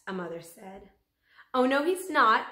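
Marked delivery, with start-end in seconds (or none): 1.5-2.5 louder and higher protest; called out. A narrator's reading. Pushy mother to rival mother, loud protest. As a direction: cut in loudly to claim the turn. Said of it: "another mother called".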